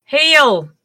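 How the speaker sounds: high-pitched call to a house; yelled hail. Acted. Player hails farmhouse from near the door, yelling out. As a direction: hail them from a few feet off. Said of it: "I will stop and yell out".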